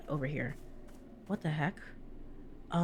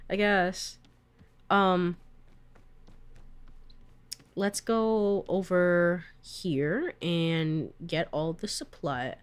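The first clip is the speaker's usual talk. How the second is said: normal talking voice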